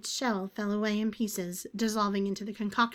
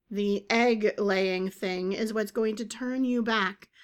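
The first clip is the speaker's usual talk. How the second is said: slow deliberate; 4 dB louder, slower than usual. Acted. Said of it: "Agatha said".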